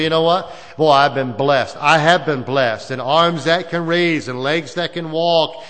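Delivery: grateful believer. Retold or imitated.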